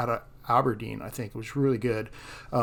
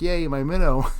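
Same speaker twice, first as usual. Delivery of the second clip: mock cheer; 2 semitones higher, 6 dB louder than usual. Retells catching fish on minnow.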